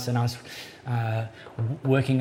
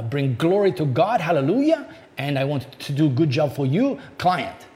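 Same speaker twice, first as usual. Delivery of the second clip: bad Korean-Australian accent. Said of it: "a very bad Korean, Australian accent coming".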